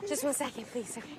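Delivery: breathless from jogging; out of breath, gasping. Real, not acted. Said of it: "I gotta get my breath".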